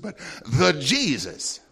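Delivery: "the" drawn out slow before "Jesus"; slow emphasis on "the" in "the Jesus"; stress on THE. Shown as a demonstration. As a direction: lean hard on "the". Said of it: "Not just one among a whole bunch of Jesuses".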